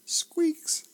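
high squeaky chair noise; squeak. Retold or imitated. Narrator voicing the sergeant's chair, high squeak.

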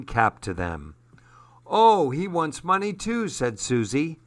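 even, gentle read-aloud narration; story narration. A narrator's reading. Host reading a novel to radio listeners, storytelling voice. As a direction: read the chapter to young listeners.

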